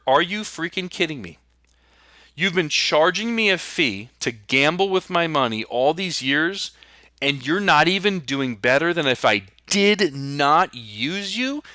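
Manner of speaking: angry. Pretend. Client chews out the advisor who took his fees, mock angry. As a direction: play the outraged client, half-hammed. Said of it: "I want you to be angry".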